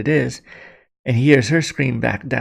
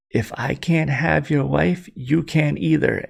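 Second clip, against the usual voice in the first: slow, deliberate threat; measured, emphatic acted menace; menacing villain; 4 semitones higher than usual. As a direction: space it out like a villain's ultimatum. Villain reveals himself, threatens his friend.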